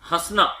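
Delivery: हंसना with the vowel through mouth and nose together; nasal demo. Shown as a demonstration. Teacher demonstrating the chandrabindu sound in हंसना. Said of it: "चंद्र बिंदु वाले किसी भी शब्द का उच्चारण".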